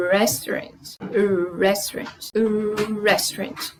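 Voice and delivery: restaurant with a curled-back R; English restaurant. Shown as a demonstration. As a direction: restaurant said softly, R round and rolled back. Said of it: "em inglês não é restaurant".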